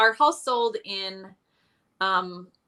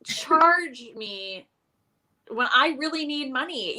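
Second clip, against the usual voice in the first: higher-pitched, playfully scandalized; mock outrage; 5 semitones higher than usual. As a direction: act affronted at the sheer nerve of it. Continues her mock outrage at charge.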